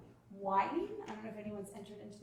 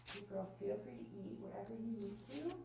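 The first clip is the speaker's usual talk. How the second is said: calm breezy offer; 7 dB quieter than usual. Shown as a demonstration. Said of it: "Quickest way to get into a power struggle is to engage".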